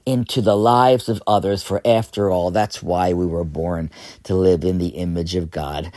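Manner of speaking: rough, worn-out voice; hoarse from singing all week. Real, not acted. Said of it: "I do apologize for the hoarseness of my voice today".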